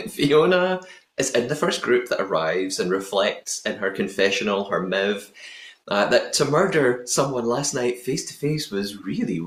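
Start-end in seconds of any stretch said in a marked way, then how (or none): 5.9-9.4 a hint of a Welsh lilt; Welsh accent. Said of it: "That's my Welsh accent".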